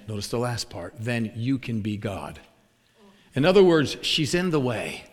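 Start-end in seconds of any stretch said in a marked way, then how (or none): 1.0-2.4 soft, low, slow close of a prayer; retold prayer. Praying for the cat owner, soft retold prayer. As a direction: end the imitated prayer quietly. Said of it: "this is what he prayed".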